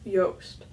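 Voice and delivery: Joost said yoast, rhyming with roast; Dutch pronunciation. Shown as a demonstration. Showing viewers the proper name, Dutch pronunciation. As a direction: Joost with a soft y-like J. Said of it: "That's the proper pronunciation".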